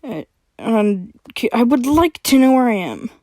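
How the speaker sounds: impatient, a bit heated; getting angry. Acted. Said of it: "he said, getting a little angry".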